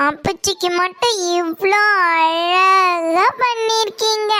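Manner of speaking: mock crying. Jealous child complains to mother.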